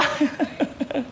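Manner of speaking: soft hidden chuckle; a muffled silent laugh; quiet chuckle. Retold or imitated. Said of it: "tahimik siyang tumatawa". (mahinang tawa)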